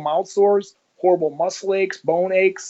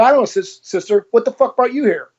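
retold rude retort; 7 semitones higher, 3 dB louder than usual. Acted rude retort to the nun.

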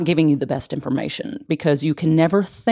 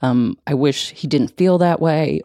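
tender self-comfort. Shown as a demonstration. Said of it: "close your eyes and say".

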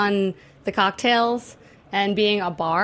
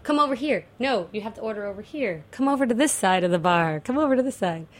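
fading out. Acted. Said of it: "audio effect from you walking away from the microphone".

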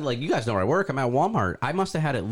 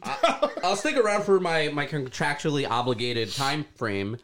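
muffled voice. Real, not acted. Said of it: "my hoodie is over my mouth right now".

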